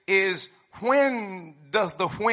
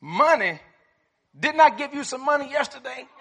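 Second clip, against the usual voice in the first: booming tipsy uncle; 6 semitones higher than usual. Retold or imitated. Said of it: "How about this one?".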